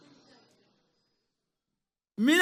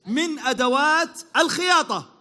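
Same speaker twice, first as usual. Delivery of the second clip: slow clue read; slower than usual. Acted. Reading the quiz clue.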